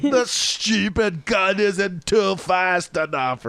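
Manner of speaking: high, slow hammed-up pirate grumble; awful pirate accent. Quoting a pirate player's complaint in an awful pirate accent. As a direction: whine like a cartoon pirate. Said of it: "hamming it up with this awful accent".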